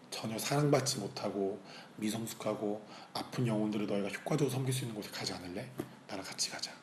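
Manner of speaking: soft voice of a loving God, sinking to a hush; tender invitation. Retold or imitated. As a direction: invite them gently, almost whispered at the end. God's tender invitation, acted. (부드럽고 나직하게 권유)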